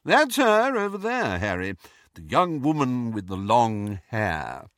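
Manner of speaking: a gentle ghost pointing someone out; ghostly Nick voice. Acted.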